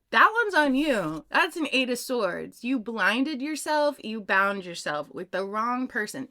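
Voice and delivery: a hint of a stern grandfather laying it out; mild mock scolding from the grandfather. Grandfather voiced in story.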